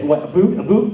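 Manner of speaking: high, loud mock "a boot?" with a rising sneer; mocking American. A stickler American mocking his about, high and loud. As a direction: mimic a stickler catching a word. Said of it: "they'll say".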